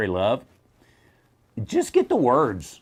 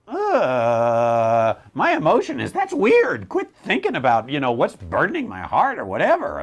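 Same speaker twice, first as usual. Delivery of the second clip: awkward discomfort; 4 dB louder than usual. Retold or imitated. Pastor to people reading his emotions, awkwardly put off. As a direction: recoil from prying, mock weirded-out. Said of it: "I always feel awkward when they".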